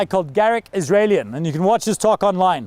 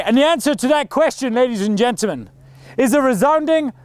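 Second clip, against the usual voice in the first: formal speech; 2 semitones higher than usual. Shown as a demonstration. A coach demonstrating the model talk's climax, grand and building. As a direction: hold them hanging before the big reveal. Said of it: "if I was coaching that guy".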